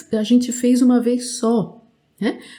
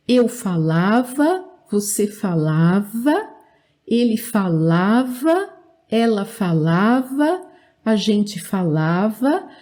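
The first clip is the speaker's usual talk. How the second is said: repeat-after-me drill. Shown as a demonstration. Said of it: "Repita comigo".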